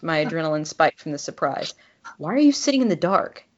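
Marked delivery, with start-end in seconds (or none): 2.2-3.4 fast, higher startled question; rattled, demanding why. Acted. Startled demand, narrator voicing herself.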